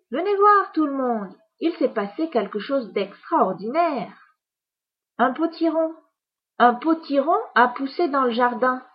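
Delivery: high, bright calling out; excited calling. Acted. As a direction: call everyone over, amazed. Mother calls the family out.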